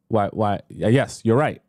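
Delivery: ordinary talk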